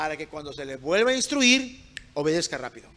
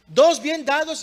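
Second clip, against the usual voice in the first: "Dos bien dados" high and loud; forceful repetition; 8 semitones higher, 8 dB louder, slower than usual. Real, not acted. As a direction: drive "Dos bien dados" home to the congregation. Repeats it forcefully to the congregation.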